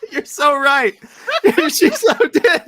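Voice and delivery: high, loud, laughing through the words; can't stop laughing while agreeing. Real, not acted. Laughing along with co-host.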